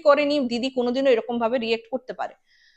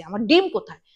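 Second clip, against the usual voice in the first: angry demand; 4 semitones lower, 3 dB louder than usual. Retold or imitated. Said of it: "রাগে বলছে".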